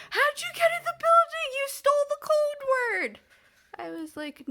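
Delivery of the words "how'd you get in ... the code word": much higher, louder mock accusation; accusing receptionist. Patient imitating a receptionist accusing her of sneaking in, high loud mock accusation. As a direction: play the flustered receptionist catching an intruder. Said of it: "She's like".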